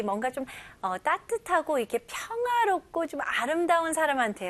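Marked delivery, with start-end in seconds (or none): none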